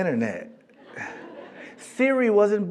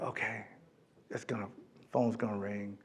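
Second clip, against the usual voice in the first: anxious muttering; 8 semitones lower, 17 dB quieter than usual. Retold or imitated. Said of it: "So I'm like".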